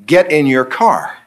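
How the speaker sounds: slow calm God voice; calm, unhurried divine order; calm firm command. Retold or imitated. God answers calmly.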